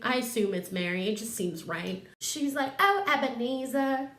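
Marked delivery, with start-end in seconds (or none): 2.8-4.1 adoring sister. Acted. Sister addresses Scrooge fondly.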